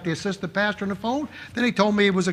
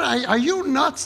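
high, slow stunned disbelief; high, slow mock shock; incredulous; 6 semitones higher, slower than usual. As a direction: ask it like you can't believe your ears. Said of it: "I said".

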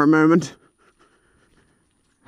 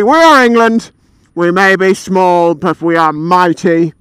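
proud declaration; slower than usual. Acted. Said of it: "and say".

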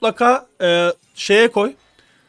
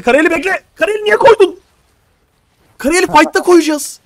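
much higher and louder, scolding the mistake; exasperated shout; 10 semitones higher, 8 dB louder than usual. Real, not acted. Coach to teammate who misplaced an item, exasperated shout. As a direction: yell to stop him misplacing an item.

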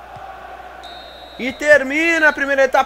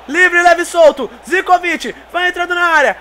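louder and higher toward the goal; building excitement; 6 semitones higher, 4 dB louder than usual. Real, not acted. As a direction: build the call up.

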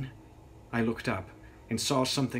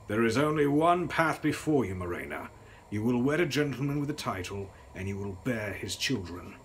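stern father. Retold or imitated. Father ordering his daughter to marry, sharp and stern. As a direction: lay down the law to his daughter. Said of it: "sharpness of his voice".

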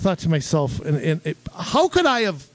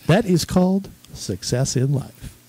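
Robert Tilton impression; 3 semitones higher than usual. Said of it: "He would say things like".

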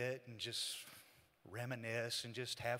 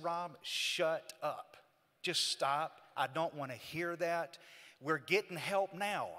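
higher-pitched, insistent retort; firm rebuke; 3 semitones higher than usual. Retold or imitated. Man cuts off his brother blaming himself, firm rebuke. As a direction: shut down his self-blame.

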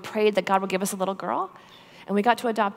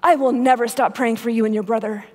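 impassioned vow; 5 semitones higher, 5 dB louder than usual. Retold or imitated. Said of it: "And she said".

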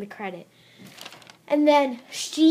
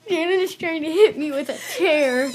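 laughing; 6 semitones higher, 4 dB louder than usual. Real, not acted. Laughing while reporting attack.

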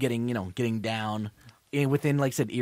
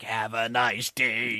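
slow, deadpan robot voice; slow robot sign-off; 3 semitones lower, much slower than usual. Retold or imitated. Robot zapping the guy, slow deadpan goodbye. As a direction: drag it out like a smug machine. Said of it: "then it's like".

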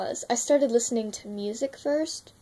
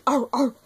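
growly arr; 2 semitones higher, 5 dB louder than usual. Shown as a demonstration. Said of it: "ways you can start a bark".

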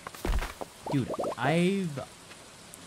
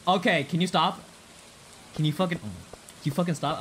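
annoyed; 4 semitones higher, 3 dB louder than usual. Real, not acted. Scolding chat, threatening timeout.

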